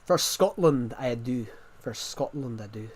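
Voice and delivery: shaky attempt at a Scottish accent. Shown as a demonstration. Streamer testing Scottish phrases on viewers, Scottish accent. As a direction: put on an amateur Scottish accent. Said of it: "My Scottish accent's not".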